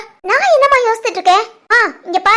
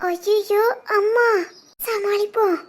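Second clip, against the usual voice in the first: hushed oh-no to herself; panicked aside; 2 semitones higher, 6 dB quieter, slower than usual. Acted. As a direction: think aloud, caught out. Daughter's panicked thought on seeing mother.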